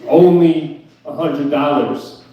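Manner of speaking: slow, drawn-out "Only" mimicking her casualness; mocking repeat. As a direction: parrot her words back, unimpressed. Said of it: "And I said that to her".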